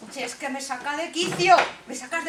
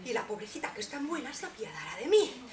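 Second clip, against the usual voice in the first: scheming chuckle; 4 semitones lower, 10 dB quieter than usual. Acted. Queen plots with laugh.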